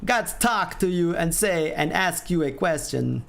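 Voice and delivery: a light hint of a Walken impression; Christopher Walken. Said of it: "the way I said it just now was more like Christopher Walken".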